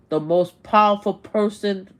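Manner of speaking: loud, punched emphasis; emphatic. Real, not acted. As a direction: hammer the phrase home. Emphatic rant repeats phrase.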